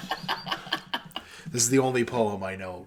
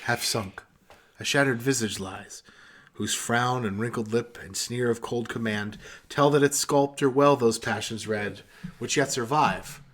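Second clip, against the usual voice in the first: poem recitation; 3 semitones lower than usual. Acted. Finishing Ozymandias for friends, slow and hushed. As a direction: let it fade to a hush.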